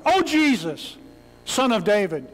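a mild, ordinary call for help; just calling out, no urgency; casual call out. Shown as a demonstration. Preacher contrasts it with an animal cry. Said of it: "This isn't some guy just yelling out".

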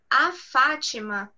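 "a" stands out before "Fátima"; stress on article "a". Shown as a demonstration. Teacher showing Portuguese articles, stressed "a". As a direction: set off the article "a" clearly. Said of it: "use articles before people's".

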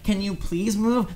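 high, drawn-out polite plea; polite request. Acted. Passer-by asking girls' way through, polite request. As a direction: stretch it out, sweetly mock-polite. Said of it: "I say it more polite".

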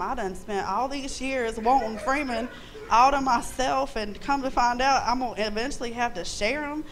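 hammed-up wronged-wife protest; mock indignation. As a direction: replay your indignant reaction for the crowd. Replays protest at sharing her husband.

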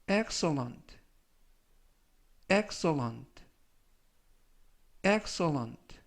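careful dictionary-style word, spaced for repetition; slow model reading. Shown as a demonstration. Teacher reading review words for learners to repeat, slow and careful. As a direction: say each word slowly and distinctly, leaving room to echo. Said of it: "천천히 세 번씩 읽어드리고요".

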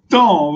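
"tom" as one isolated, firm syllable; syllable model. Shown as a demonstration. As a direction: land firmly on a lone "tom" to finish the phrase. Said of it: "Vous prononcez comme ça". (« tom » isolé et appuyé)

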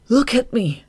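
high, loud cry of self-reproach; inward shout. A narrator's reading. Shade shouts at himself in his head, anguished. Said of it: "he shouted inwardly".

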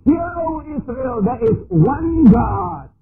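slow ringing scripture quote; solemn quote. Retold or imitated. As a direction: intone the ancient creed. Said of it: "some others will say".

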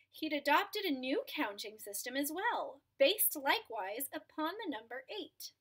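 storybook narration for a class; read-aloud storyteller voice; reading to children. A narrator's reading. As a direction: tell the tale to the children. Reads a picture book aloud.

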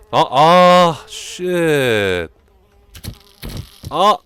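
loud, very drawn-out curse; dismayed yell. Real, not acted. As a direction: wail the swear word slowly. Curses at game mishap.

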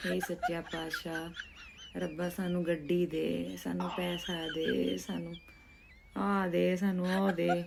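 hushed, begging prayer to God; praying voice. Retold or imitated. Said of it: "ਲੋਕੀ ਸਵੇਰੇ ਉੱਠ ਕੇ ਅਰਦਾਸ ਕਰਦੇ ਨੇ". (ਹੌਲੀ ਅਰਦਾਸ ਵਾਲੀ ਆਵਾਜ਼)

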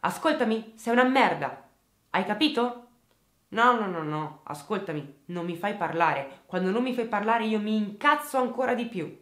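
imitating a man yelling down the phone; mock angry yelling. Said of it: "sente suo figlio urlare". (urla rabbiose imitate)

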